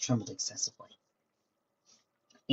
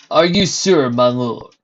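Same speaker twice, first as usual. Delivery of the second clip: anxious servant; 3 semitones higher, 10 dB louder, slower than usual. Acted.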